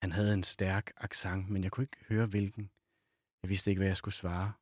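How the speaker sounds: measured novel reading with pauses between phrases; literary reading aloud. A narrator's reading. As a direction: read the passage aloud, unhurried.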